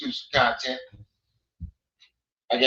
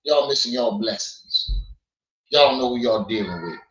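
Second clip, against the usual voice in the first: Rango impression; 4 semitones lower than usual. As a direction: drop down and drag it out a little like Rango. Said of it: "That's my Rango, that's my Rango impression".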